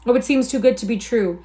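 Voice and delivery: "seems" carried high and loud with amazement; excited wonder. Acted. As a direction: gasp it out in disbelief. Hugh's feigned amazement.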